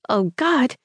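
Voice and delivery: high mortified squeak; embarrassed squeak. A narrator's reading. Girl caught in her bra squeaks in panic. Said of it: "I squeaked".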